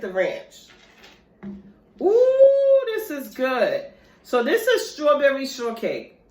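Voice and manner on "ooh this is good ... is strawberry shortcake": a shifted put-on voice; a lightly voiced second personality, sing-song. Tasting shortcake, she slips into a lightly voiced second personality. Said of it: "I just had two personalities at one time".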